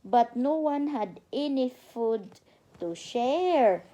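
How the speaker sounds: slow, careful storybook reading for a little one; reading to a child. Acted. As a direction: read it out like a bedtime story. Mother reads storybook to child.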